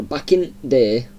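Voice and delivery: slow, drawn-out Yorkshire saying; Yorkshire dialect. Shown as a demonstration. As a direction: show off the Yorkshire phrase, unhurried. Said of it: "another thing we say in Yorkshire".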